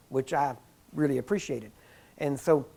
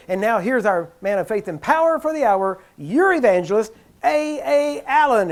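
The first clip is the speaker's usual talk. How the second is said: imitating song director; 5 semitones higher, 6 dB louder than usual. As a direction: hype the star evangelist to the crowd. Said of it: "And then he'd say".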